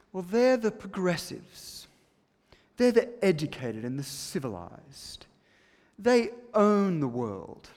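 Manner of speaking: put-on British accent. Preacher playing the Greeks as civilized progressives, mock British accent. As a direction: lightly mimic a snooty Brit. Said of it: "I'm putting on a British accent".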